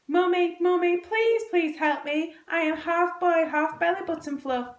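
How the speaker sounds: put-on loud, high-pitched blubbering child; blubbing. A narrator's reading. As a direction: blub and beg like a hammed-up little boy. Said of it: "blubbed Harry".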